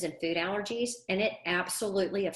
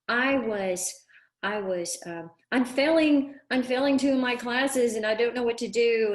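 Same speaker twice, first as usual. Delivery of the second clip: mock upset voice, pitched higher and louder; retold upset student; 4 semitones higher, 5 dB louder than usual. Coach voicing the crying valedictorian on the phone, mildly upset. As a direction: lightly act out a panicked student. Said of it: "she's crying".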